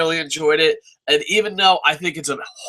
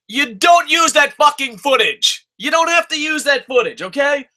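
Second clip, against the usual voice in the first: slowed, punched-out complaint; angry rant; 7 semitones higher than usual. Real, not acted. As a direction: drive every word home in exasperation. Ranting at the wrestling show.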